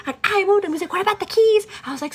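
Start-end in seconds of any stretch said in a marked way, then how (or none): 0.2-0.7 high, loud insistence; hammed-up indignant protest; retold bickering. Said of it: "we were going back and forth". 0.9-1.7 loud, high mock accusation; retold bickering. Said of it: "we were going back and forth".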